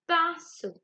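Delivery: pinceau slow and high, nasal "in" drawn out; sound demonstration. Shown as a demonstration. Teacher letting pupils hear pinceau, slow sound demonstration. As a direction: stretch the "in" of pinceau so it is heard. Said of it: "Donc, vous pouvez entendre".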